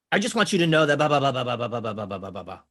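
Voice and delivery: mock rambling that falls away in pitch; blurting out information. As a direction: spill it all in one unbroken stream of blahs. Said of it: "they're just splurting out all their stuff".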